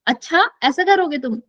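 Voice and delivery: a touch of a scolding अच्छा, ऐसा करोगे तुम; understated telling-off; mild scolding. Shown as a demonstration. Teacher demos scolding a student, mild mock anger. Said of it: "मैं किसी को ऐसे डांट रही हूँ".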